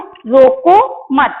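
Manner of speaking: slow रोको मत, ending in a stop; pause after मत. Shown as a demonstration. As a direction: draw out रोको मत up to the comma. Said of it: "अल्प विराम लगा".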